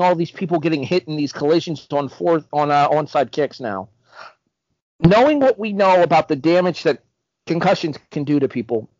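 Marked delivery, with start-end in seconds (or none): 5.0-8.9 talking through hiccups; words broken by hiccups. Real, not acted. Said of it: "Sorry, I have the hiccups".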